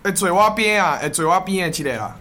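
hammed-up Taiwanese variety-show accent; sing-song Taiwanese TV host accent. Shown as a demonstration. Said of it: "台湾腔".

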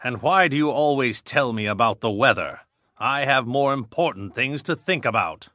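low, irritated man's voice; angry man. A narrator's reading. Man to the girl who talks weather, irritated low voice. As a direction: complain crossly, pitched well down. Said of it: "said the man angrily".

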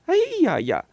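high, loud sarcastic whoop; mocking exclamation. A narrator's reading. Neighbour mocking the screaming mother loudly. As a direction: scoff at her loudly.

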